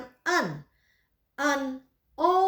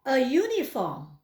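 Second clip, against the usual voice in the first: slow repeat; slower than usual. Shown as a demonstration. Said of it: "Saya ulangi".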